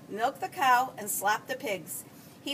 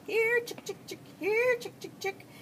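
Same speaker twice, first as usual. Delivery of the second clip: yelling; 10 semitones higher than usual. A narrator's reading. Farmer calls chickens to feed, yelling high. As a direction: call the chickens in, pitched way up. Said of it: "and began yelling".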